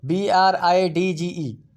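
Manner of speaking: slow letter-by-letter spelling; teacher spelling out a word; spelled out slowly. Shown as a demonstration. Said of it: "इसी तरह ब्रिज".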